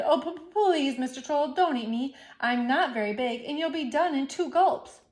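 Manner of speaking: beg, tripping over words; stammering, frightened. Acted. Goat stammers in fear.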